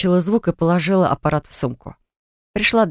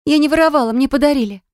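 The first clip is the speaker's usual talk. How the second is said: much higher, frantic protest; girl desperately denying theft; panicked daughter; 9 semitones higher than usual. Acted. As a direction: blurt it out in panic. Frightened daughter defends herself.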